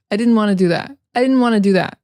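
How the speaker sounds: "wanna" linked straight into "do that"; casual "didn't wanna", no T; mid-sentence wanna. Shown as a demonstration. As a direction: blend "want to" into "wanna". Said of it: "we use wanna more when".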